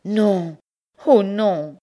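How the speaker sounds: high, loud desperate denial; crying out. Acted. Bertrande cries out high and loud against Pierre's tale. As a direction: refuse it with all her voice. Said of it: "s'écria-t-elle".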